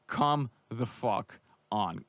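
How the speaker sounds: slow, disgusted groan of a line; fed-up fan cursing the judges; exasperated. Real, not acted. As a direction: drag it out in disbelief. Outraged at judge's scorecard.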